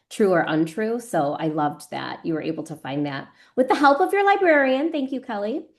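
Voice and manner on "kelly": normal talking voice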